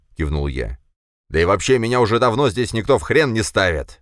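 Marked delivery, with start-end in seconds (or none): 1.3-4.0 loud, heated rant; working himself up. A narrator's reading. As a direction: boil over with grievance. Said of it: "распалялся Пегасов".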